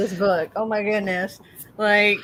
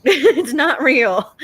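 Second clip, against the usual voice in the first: slowed, louder teasing repeat; slow, emphatic partner; 4 semitones higher, 5 dB louder, much slower than usual. Retold or imitated. Partner teasingly insists the story isn't real. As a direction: drag it out to make the point. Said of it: "It's like".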